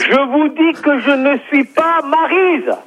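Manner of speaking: exasperated. Real, not acted. Fed up, repeats to deaf caller.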